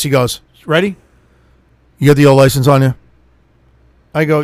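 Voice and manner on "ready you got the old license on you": sunglasses-wearing license man. Retold or imitated. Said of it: "he's like this".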